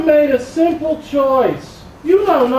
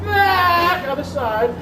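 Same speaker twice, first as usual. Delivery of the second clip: whimpering cry; 5 semitones higher, slower than usual. Acted. Nurse cries about her back.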